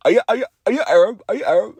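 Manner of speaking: high-pitched mimicked catchphrase; put-on high voice, quick at first; Nina Drama. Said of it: "say the, uh, Nina drama".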